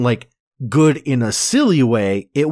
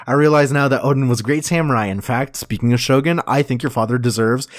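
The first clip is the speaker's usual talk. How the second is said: rushed, wheedling plea; fast groveling; much faster than usual. Retold or imitated. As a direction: babble it out to save yourself. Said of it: "He's like".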